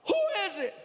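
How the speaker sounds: retold yell. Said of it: "He yells".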